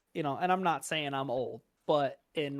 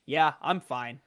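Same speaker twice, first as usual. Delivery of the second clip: flat deadpan monotone; slower than usual. Retold or imitated. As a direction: answer in a dead monotone. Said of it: "straight monotone's just like".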